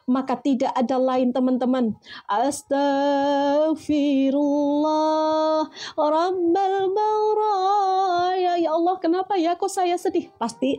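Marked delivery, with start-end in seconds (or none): 2.3-10.3 drawn-out, wailing plea to God; acted-out sorrowful plea; plaintive lament. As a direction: stretch the opening words, then climb into a plaintive cry. Acting out a sad person's lament.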